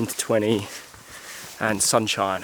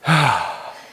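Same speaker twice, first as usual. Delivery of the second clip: heavy exhale; 4 dB louder than usual. Real, not acted. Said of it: "Excuse the heavy breathing".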